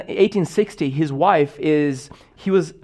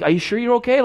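much higher, fussing concern; imitating a worried churchgoer, pitched up; mock worried friend; 8 semitones higher, faster than usual. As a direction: pester him kindly with worry.

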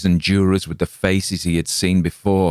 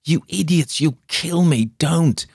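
much higher, frantic plea; desperate inner cry; 11 semitones higher than usual. Acted. Injured man silently screams at the crowd, frantic. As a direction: scream it inside your head, horrified. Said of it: "he couldn't say any of this out loud".

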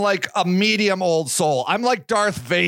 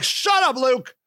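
exasperated; 4 semitones higher than usual. Retold or imitated. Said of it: "I'm like".

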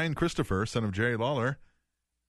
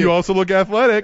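loud high quick cartoon voice; 8 semitones higher, 12 dB louder than usual. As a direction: chirp it like a cartoon mascot. Kids show parody.

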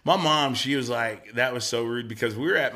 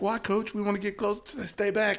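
imitating kids; 9 semitones higher, 3 dB quieter than usual. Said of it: "they're like".

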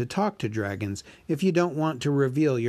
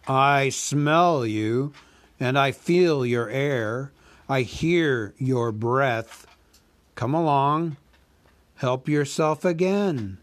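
slow, louder, menacing dragon voice; a huge dragon toying with the thief; slow, loud dragon purring over his prey; dragon Smaug; 3 semitones higher, 5 dB louder, slower than usual. Acted.

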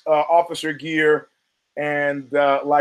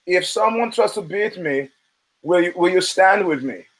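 put-on German accent; 2 semitones higher than usual. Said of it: "in his German accent".

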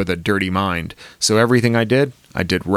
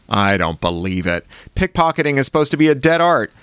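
plain reading voice

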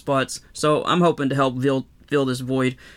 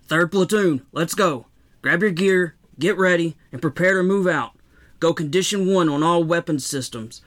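raised, barked platoon commands; rally the troops to move out; commanding officer orders; 3 semitones higher than usual. Acted.

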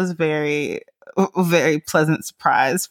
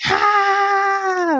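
high, short imitated baby scream; mock baby scream. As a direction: squeal like a toddler running away. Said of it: "screaming at the top of his lungs".

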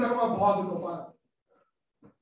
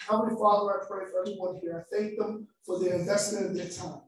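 steady, earnest prayer voice. Acted. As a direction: pray over the congregation sincerely. Leads a prayer.

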